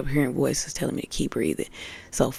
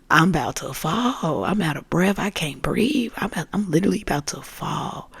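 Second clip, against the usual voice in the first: desperate plea; 2 semitones higher than usual. Retold or imitated. Retold plea while out of breath.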